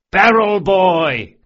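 hollered. A narrator's reading. Sansa brothers taunting Bug, hollering together. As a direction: holler it across the table at the kid. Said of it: "the Sansa brothers hollered in unison".

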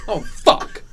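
breathless laughing oh fuck; airy laughing swear; laughing curse. Acted. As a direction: gasp it out through laughter. Acted reaction, laughing.

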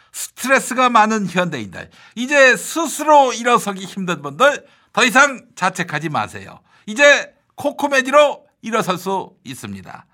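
upbeat commercial voice; ad read. Acted. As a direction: sell it like a TV ad. Reads an ad spot.

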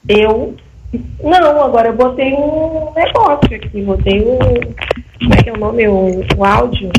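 distant, echoey phone sound; on speakerphone. Real, not acted. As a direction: voice far from the mic. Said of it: "parece que teu som ficou um pouquinho mais longe".

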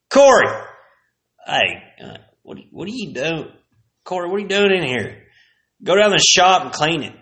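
high sharp teacher calling out; mocking teacher. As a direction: bark the name then scold. Teacher roll call.

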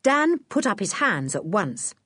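ordinary delivery, nothing marked

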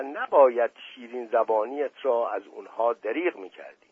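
mild reproach to a friend; reproachful tone. Acted. Prince reproaching Dust Ali Khan before the guests, mildly. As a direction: scold him gently for embarrassing you. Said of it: "با لحن ملامت".

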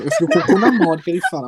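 laughing while talking. Real, not acted. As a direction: giggle through it. Laughs describing scary voice.

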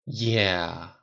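weary, resigned agreement; heavy sigh. A narrator's reading. Rhodey agreeing glumly with his venting friend, heavy sigh. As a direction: sigh the word out. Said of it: "Rhodey sighed heavily".

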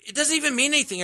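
high-pitched retold exclamation; giddy, squeaked-up recollection; giddy disbelief. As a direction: quote it high, as if helpless with laughter. Retelling helpless laughing with friends.

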